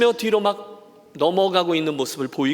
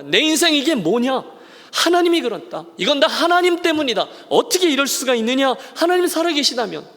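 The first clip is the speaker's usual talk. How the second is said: higher, pained outcry against God; bitter complaint; 5 semitones higher than usual. Acted. Naomi crying out bitterly to God, higher and pained. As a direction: pour out the grievance in a raised voice. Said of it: "원망의 말을 쏟아낸 겁니다".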